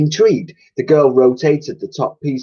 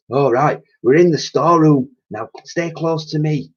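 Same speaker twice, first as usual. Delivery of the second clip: higher, louder cockney cleaning lady; old cleaning lady voice; 7 semitones higher, 3 dB louder than usual. A narrator's reading. Cleaner announcing where they are, chirpy and loud.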